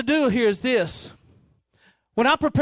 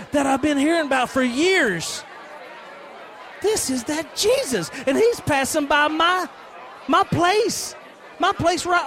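getting more and more worked up; excited beggar; 3 semitones higher than usual. Acted. Blind beggar hearing Jesus passes by, rising excitement.

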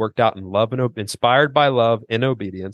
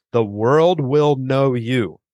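slow, weighty quotation of Jesus; measured, emphatic citing of scripture; solemn scripture quote; 3 semitones higher, much slower than usual. Retold or imitated. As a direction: quote it slowly, letting each word land.

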